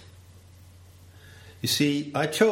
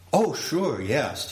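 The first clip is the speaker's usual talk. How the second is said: higher, quick happy assent; eager host; 5 semitones higher, slower than usual. Pretend. Host assuring the guest about the tuna, eagerly. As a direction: agree keenly, lightly voiced. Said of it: "T T responds".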